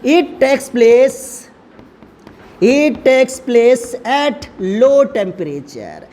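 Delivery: very slow, drawn-out dictation; word-by-word classroom dictation; dictating while writing. Real, not acted. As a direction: stretch every word as you write it out. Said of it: "point बना के लिख दे रहा हूँ".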